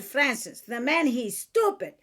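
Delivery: lightly imitated Chaldean accent; mother's Chaldean accent. Chaldean mother advising her daughter, in her accent. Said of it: "And in her accent".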